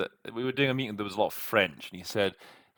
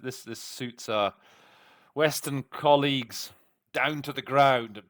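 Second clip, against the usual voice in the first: this suits our Western colleagues, said slowly and a bit louder; slower, weighed rephrasing; 4 semitones higher, 4 dB louder than usual. Shown as a demonstration. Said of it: "Okay, I said what I said".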